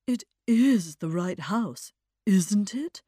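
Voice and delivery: slow, anxious questioning with weight on "is"; mild pleading. Acted. Eddie arriving in acute distress, mildly pleading. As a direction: plead lightly, drawing it out. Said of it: "he pleaded".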